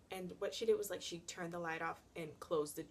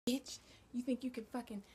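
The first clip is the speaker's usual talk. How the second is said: aunt's threat; 5 semitones higher than usual. Retold or imitated. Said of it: "She's just like".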